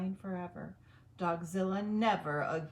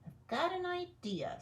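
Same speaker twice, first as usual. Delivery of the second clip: very high mouse voice; squeaked; 11 semitones higher than usual. Acted. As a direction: squeak it out eagerly. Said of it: "squeaked the Big Cheese".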